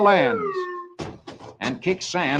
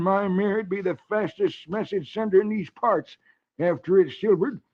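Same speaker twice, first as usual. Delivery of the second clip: put-on old hermit voice; 3 semitones higher than usual. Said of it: "The old hermit replies".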